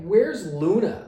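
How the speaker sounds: high, loud, slow demand. Retold or imitated. Demanding the guitarist hand the phone over, high and slow. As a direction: press hard for an answer.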